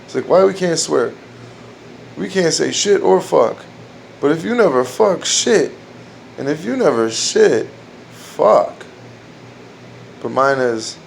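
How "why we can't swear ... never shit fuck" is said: higher punchy retelling of Red Fox; a hint of Red Fox bit; Red Fox joke. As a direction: deliver it like an old-school comic. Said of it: "like Red Fox, he has that joke".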